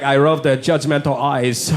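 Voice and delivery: put-on low, slow Japanese accent; girlfriend's put-on Japanese accent. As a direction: linger over it in Japanese-accented English. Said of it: "He's like".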